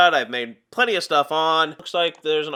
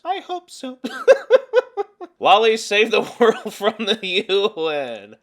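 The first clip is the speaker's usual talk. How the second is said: put-on girly voice; 5 semitones higher, 5 dB louder than usual. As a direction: ask it like a sweet anime girl. Continuing the girly voice, giggling.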